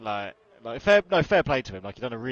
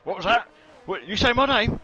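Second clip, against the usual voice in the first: high, loud mock outrage, pitch climbing; mocking Lexi; 12 semitones higher, 6 dB louder than usual. To his co-host, mimicking Lexi's loud indignant squeal. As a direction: squeal it like an offended girlfriend. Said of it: "Just standard Lexi, just throwing shade at everyone".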